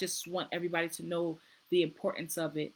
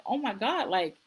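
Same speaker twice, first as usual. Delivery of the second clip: retold surprise; 3 semitones higher, 4 dB louder than usual. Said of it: "I just immediately started crying".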